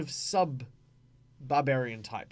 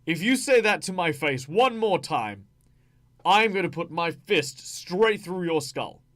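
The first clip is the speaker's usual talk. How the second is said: intimidating threat; 3 semitones higher, 5 dB louder than usual. Acted. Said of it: "could be intimidating as well".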